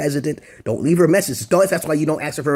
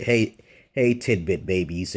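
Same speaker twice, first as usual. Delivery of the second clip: smooth line; 5 semitones lower, slower than usual. Shown as a demonstration. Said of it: "I said".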